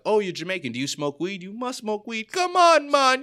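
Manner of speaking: high, pushy mock voice climbing into a loud whine; mock the stranger who won't drop the weed question. Stranger pressing a Jamaican man about weed, high pushy mock voice.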